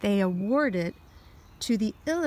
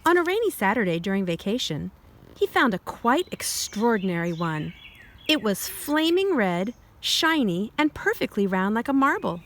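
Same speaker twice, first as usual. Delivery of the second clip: put-on reading to children. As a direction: clear storybook read-aloud. Reads picture book aloud.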